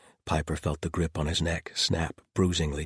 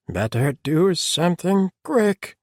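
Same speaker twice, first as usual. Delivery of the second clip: high, loud, slow strained creature voice; 12 semitones higher, 8 dB louder, slower than usual. A narrator's reading. Earstripe clinging on by his claws, strained. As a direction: force it out under great strain. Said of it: "sounding strained".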